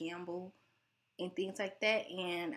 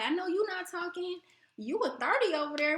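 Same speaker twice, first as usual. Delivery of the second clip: high, louder catty jab; mock catty relative; 10 semitones higher, 5 dB louder than usual. Imitating relatives trading size insults, catty. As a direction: throw the shade like a family member. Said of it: "and it's like".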